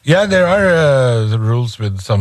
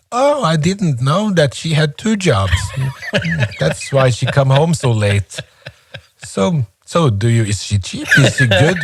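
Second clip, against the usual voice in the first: mock calm reply; 3 semitones higher than usual. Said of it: "he would say very calmly".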